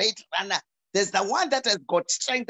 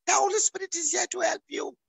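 higher, lightly voiced insistent inner voice; a higher voice from God insisting she accept help; gentle firm insistence; 10 semitones higher than usual. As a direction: tell her gently she can't refuse. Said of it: "I thank God who opened my eyes to say to me".

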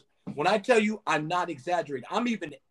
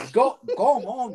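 mock yell; 7 semitones higher, 6 dB louder, slower than usual. Mock yell at a doorman customer.

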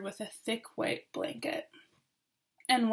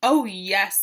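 excitedly; 2 semitones lower, 6 dB louder than usual. Acted. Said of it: "said Ollie excitedly".

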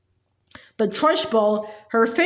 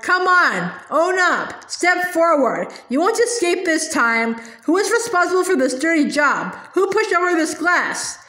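raised, higher furious tirade; roaring headmistress; 4 semitones higher than usual. Acted. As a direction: shout down the whole class. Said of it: "she roared".

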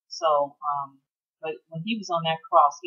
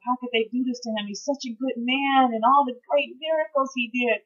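pleading, higher, tearful lament; retold grieving lament; 6 semitones higher than usual. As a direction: mourn an innocent man, voice raised. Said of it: "crying and crying, like".

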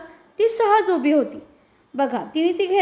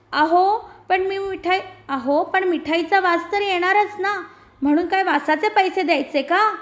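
put-on girl raising voice; 4 semitones higher than usual. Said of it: "थोडा आवाज चढवते".

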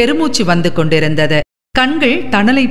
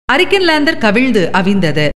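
ordinary delivery

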